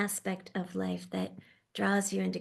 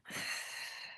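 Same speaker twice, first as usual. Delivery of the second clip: quiet breathy exhale; soft release sigh; 9 dB quieter than usual. Shown as a demonstration. Teacher showing the group a soft release, gentle sigh. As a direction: let the breath fall out softly. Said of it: "So you release that hold".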